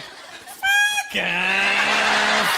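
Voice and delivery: drawn-out braying curse; swearing like a donkey. Retold or imitated. Comic shows how white people swear, donkey-like bray. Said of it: "you sound like donkeys".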